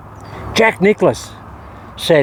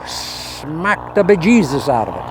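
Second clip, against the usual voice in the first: put-on slow, half-hearted stab at an Irish accent; a lightly put-on mock Irish brogue, drawn out; failed Irish accent; slower than usual. Golfer to his viewers, attempting an Irish saying, in a clumsy mock Irish accent. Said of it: "That's not an Irish accent".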